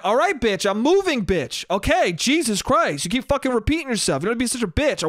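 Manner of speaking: acted annoyance with swooping pitch; mock irritated retort. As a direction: imitate someone fed up and cussing back. Acts the women's irritated retort.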